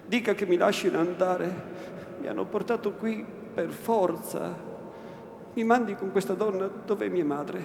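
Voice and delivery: begging for mercy. Acted. Lucia begs the Innominato to let her go to her mother, pleading.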